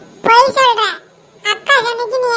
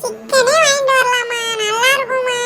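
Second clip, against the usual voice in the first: whiny crying; 3 semitones higher than usual. Acted. Child whining for chicken.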